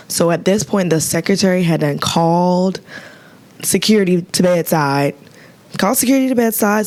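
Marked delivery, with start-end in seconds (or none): 5.8-6.9 higher and fast, urgent; excited emphasis. Real, not acted. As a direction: fire it off like an alarm. Repeated for emphasis.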